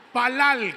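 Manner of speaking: palal stressed on the final syllable, pa-LAL; stress on the last A. Shown as a demonstration. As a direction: land the stress on the second A of palal. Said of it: "con acento en la A".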